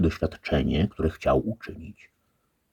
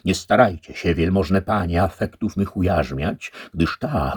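wysoko i głośno, egzaltowane wołanie; odpędza pokusy donośnym, podniosłym głosem; wołanie rycerza; 5 semitones higher, 5 dB louder than usual. A narrator's reading. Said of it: "zawołał". (podniośle wołający rycerz)

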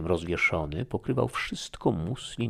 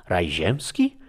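loud, alarmed echo, near despair; frightened cry; 7 dB louder, slower than usual. Acted. Young woman hears paradise mentioned, crying out in fright. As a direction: cry it back in horror. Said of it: "krzyknęła młoda kobieta, przerażona i prawie z rozpaczą".

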